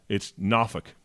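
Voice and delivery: Norfolk said nah-fuk, southern accent. Shown as a demonstration. Local Virginia southern accent: Norfolk as nah-fuk. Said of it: "with the southern accent".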